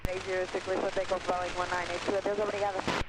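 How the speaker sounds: thin crackly radio transmission; crackly military radio. Real, not acted. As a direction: voice squeezed through a radio. Pilot reads back over radio.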